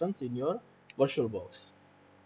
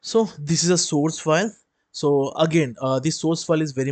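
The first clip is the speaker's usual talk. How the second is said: louder and clearer; 2 semitones higher, 6 dB louder than usual. Real, not acted. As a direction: speak up so everyone hears. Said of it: "your voice is very low".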